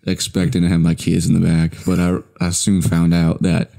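lightly drawled laid-back Texan voice; McConaughey impression. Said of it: "That's my Matthew McConaughey impression".

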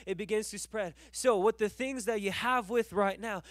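driving, emphatic exhortation; fervent preaching. Real, not acted. Preacher urging the congregation to go out, fervent preaching. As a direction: press each point home with punched key words.

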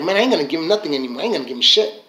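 low, fast grumble; resentful giver. Acted. Giver who got no gratitude, resentful. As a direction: grumble it rapidly under your voice. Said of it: "they were not grateful".

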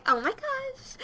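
high, slow character voice; tentative high-pitched character impression; Spencer. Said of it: "I think this is Spencer's voice".

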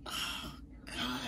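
whispered dread; a hushed, half-joking oh no; mock horror. Imagined regret after waking up.

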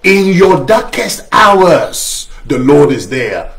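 slow, weighty title read, stress on darkest; slow sermon title. Shown as a demonstration. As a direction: announce the sermon title slowly and gravely. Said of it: "sermon I've entitled".

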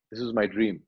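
low, subdued mock lament. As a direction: retell a mild lament in a low voice. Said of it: "he's lamenting after".

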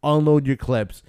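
rally the troops with a punchy command; lightly acted squad leader's command; barking orders. Acting out Butcher ordering troops to fire.

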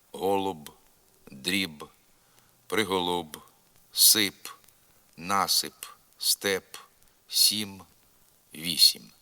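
unsoftened final б, п, м, as in "голуб", "степ", "сім"; hard final labials. Shown as a demonstration. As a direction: end "дріб" and "вісім" on a hard lip consonant. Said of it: "ніколи не м'якшаться на кінці слова".

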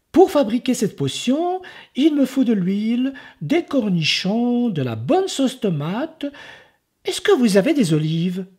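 put-on high, eager boy's voice; chirpy child pitching his potion; sly little boy. Enzo tricking the ogre, high and eager.

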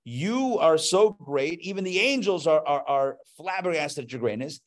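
voicing an amazed worshipper; awed address to God. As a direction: marvel directly at God. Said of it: "that should evoke a love for God".

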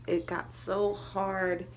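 towel pressed on mouth; talking while drying face; muffled through towel. Real, not acted. Seen 0: Towel pressed over mouth and cheek throughout the labelled words.

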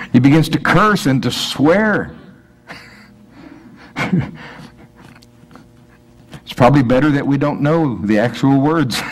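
usual speaking voice

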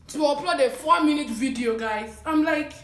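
chewing between words; talking over food; mouth full. Real, not acted. Seen 0: Puts food in mouth at -2 to -1, then talks holding food.

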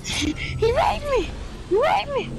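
high, hammed-up crying wail; overacted high-pitched distress; mock hysterics. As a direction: wail it like a fake victim. Mock report yelled during game.

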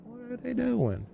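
very high, soft, drawn-out squeak; tiny falsetto. Pretend. Gamer echoes his question about figures, tiny falsetto. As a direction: repeat it as a small, slow falsetto echo. Repeats question higher, softer.

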